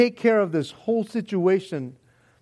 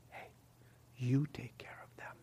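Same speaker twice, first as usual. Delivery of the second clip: quiet, small, still inner whisper; 6 semitones lower, 19 dB quieter than usual. Acting out hearing a voice after prayer: small, still voice of Jesus. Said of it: "you hear this small, still voice".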